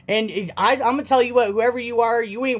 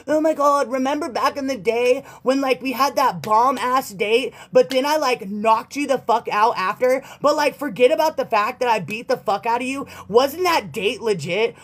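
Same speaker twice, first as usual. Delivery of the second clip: mocking ex; 3 semitones higher than usual. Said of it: "They don't wanna think about the old times".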